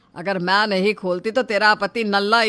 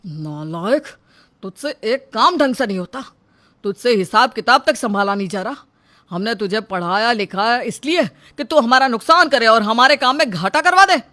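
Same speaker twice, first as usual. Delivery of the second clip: angry scolding. Acted. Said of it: "बहुत ज़्यादा गुस्सा करने लगता है".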